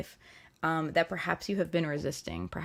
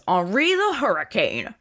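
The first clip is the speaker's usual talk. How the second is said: put-on slow, louder, pretentious French accent; smarmy French accent; 5 dB louder than usual. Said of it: "with a French accent".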